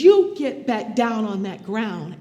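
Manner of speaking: loud order from the officer; officer's command. Retold or imitated. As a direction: bark it down at her like a cop. Officer barks order at her.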